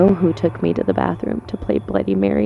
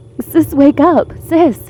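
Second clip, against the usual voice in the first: mock scream, high, drawn-out, urgent; 8 semitones higher, 4 dB louder than usual. Waking a sleeping sister in a panic: screaming. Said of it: "And why are you screaming?".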